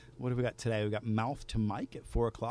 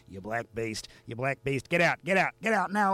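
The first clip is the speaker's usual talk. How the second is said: raging yell; 2 semitones higher, 6 dB louder than usual. Acted. Boss screams at the man eating his cake, raging. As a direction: charge at him like a freight train. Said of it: "come out like a goddamn freight train".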